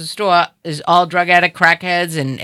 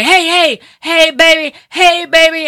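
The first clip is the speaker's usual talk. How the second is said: high, drawn-out street holler; mimicking a man yelling come-ons; imitated catcall yell; 8 semitones higher, 4 dB louder, slower than usual. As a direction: call after a passerby, pitched well up. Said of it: "talking to me and he's yelling".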